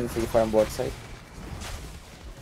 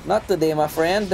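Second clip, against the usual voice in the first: NOT said higher and harder, teasing; stress on NOT; 5 semitones higher than usual. Real, not acted. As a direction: punch "Not" as a cocky taunt. Repeats taunt, more emphatic.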